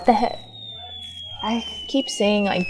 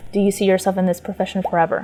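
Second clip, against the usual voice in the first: brisk interrogating question; interrogative; faster than usual. Shown as a demonstration. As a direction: grill them like a stiff interviewer. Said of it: "come off as interrogative".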